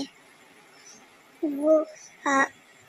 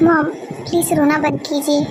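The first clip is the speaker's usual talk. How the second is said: pleading; 4 dB louder than usual. Acted. Son begging mother to stop.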